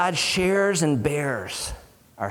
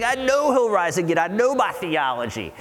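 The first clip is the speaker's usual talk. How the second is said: higher, exasperated retort from Martha; a grieving sister bristling at Jesus, exasperated; indignant Martha; 5 semitones higher than usual. Retold or imitated. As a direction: Martha snapping back that she knows.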